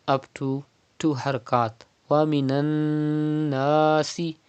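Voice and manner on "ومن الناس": ومن الناس with the noon held nasally for two counts; ghunna demo. Shown as a demonstration. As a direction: let the noon of الناس ring in the nose. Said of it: "with gunna".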